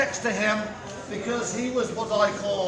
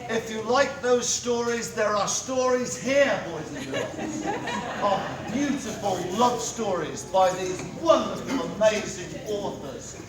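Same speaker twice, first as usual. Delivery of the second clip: town crier. Acted. Town crier closing proclamation.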